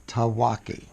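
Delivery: each syllable slow and clear, Tawaki; slow careful say. Shown as a demonstration. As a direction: spell out Tawaki slowly, syllable by syllable. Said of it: "I'll say it slowly first".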